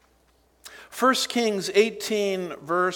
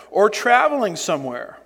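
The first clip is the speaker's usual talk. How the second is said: sarcastic taunt. Acted. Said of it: "Talk about sarcasm".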